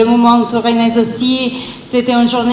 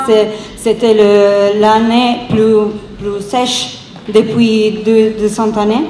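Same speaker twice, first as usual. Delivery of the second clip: French spoken with a real Italian accent; non-native French with Italian accent. Real, not acted. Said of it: "français c'est un peu comme ci comme ça".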